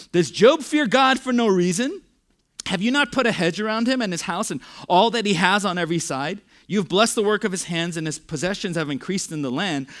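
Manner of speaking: mocking challenge from the accuser; cynical, sarcastic Satan. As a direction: read it as a scornful accusation, starting forceful and easing slightly. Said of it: "notice how cynical and sarcastic Satan is".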